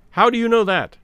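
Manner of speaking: sharp high question; startled. A narrator's reading. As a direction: blurt it out, shaken. Sterndale startled by Holmes.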